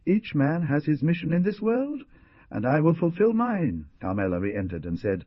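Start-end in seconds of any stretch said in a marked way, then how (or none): 0.1-3.8 hoarse murmur. Acted. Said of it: "he murmured in a hoarse voice".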